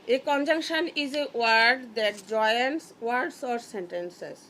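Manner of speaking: very slow, word-by-word English definition; slow dictation. Shown as a demonstration. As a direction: spell out each word for the pupils. (ধীরে ধীরে শ্রুতিলিখনের মতো পড়া)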